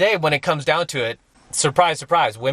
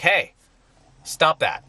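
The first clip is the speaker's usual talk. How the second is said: firm scolding; 3 semitones higher than usual. Retold or imitated. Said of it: "and I'm like".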